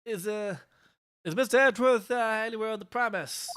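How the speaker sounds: high, jittery, stammering; nervous officer voice. Acted.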